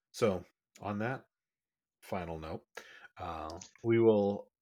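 smooth late-night DJ sign-off; sexy DJ voice. Real, not acted. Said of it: "I love how you go into a sexy D J voice there".

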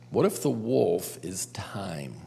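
hushed, breathy whisper. Shown as a demonstration. Youth leader whispering the question to the group for effect. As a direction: lean in and whisper it like a secret.

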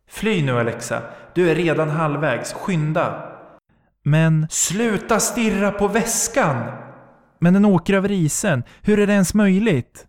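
high frightened pleading; panicked inner voice. Acted. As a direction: scold yourself to run. Frantic inner voice urging flight.

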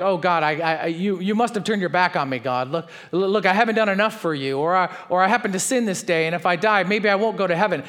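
mock frantic prayer; anxious pleading. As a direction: rush it like a panicked believer. Anxious believer voiced in sermon.

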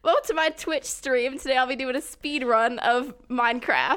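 peppy streamer intro in bad British; Sonic, British YouTuber accent. Announcing a Minecraft speed run, mock British YouTuber accent. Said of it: "sort of like the British YouTuber accent".

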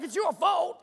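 mock shout, high and loud; yelling mum. Preacher voices a mum blaming her kid mid-ride, mock shout. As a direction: imitate a mum yelling back.

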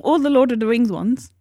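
talking through a mouthful; eating while talking; mouth full. Real, not acted. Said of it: "I'm eating my clip at the same time".

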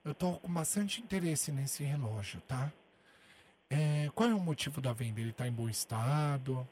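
very soft hushed voice, nearly whispered. Acted. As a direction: keep it barely audible the whole call. Caller whispers the whole prank. (pedindo silêncio em voz baixíssima)

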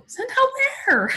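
high, startled retold question; alarmed question. Daughter asking mom, startled and alarmed. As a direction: ask it like the news just hit you.

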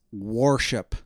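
WORSHIP with a heavy OR sound; minister's worship. Retold or imitated. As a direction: draw out WOR like war-ship. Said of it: "And he says".

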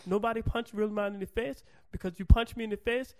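badly faked broken-English foreign accent; garbled mock accent. Host threatening a karate chop, garbled mock accent. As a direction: boast in a mangled put-on accent. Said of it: "Is that what the accent is".

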